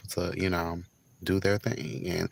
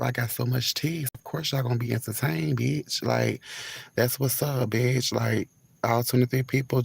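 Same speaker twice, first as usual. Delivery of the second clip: sassy hyped up; 3 semitones higher than usual. Real, not acted. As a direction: hype the viewers up with sass. Hyped sassy subscribe pitch.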